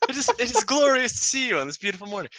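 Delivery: lightly hammed-up flowery kobold; hammed-up eloquent kobold. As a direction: play the kobold as a mock gentleman. GM voices kobold eloquently, jokingly.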